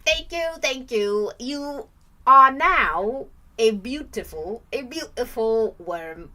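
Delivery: put-on British accent, drawn out and loud. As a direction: grandly thank them in a mock British accent. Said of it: "I do my British accent".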